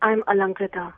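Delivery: sweet put-on girl voice on the phone; girlish voice. Caller putting on a sweet girl's voice for a prank. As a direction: play a shy young woman caller.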